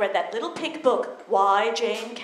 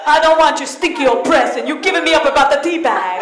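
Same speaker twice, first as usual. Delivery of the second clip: louder mock grandma complaining; grumbling grandma; 6 dB louder than usual. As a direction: grumble like an offended nonna.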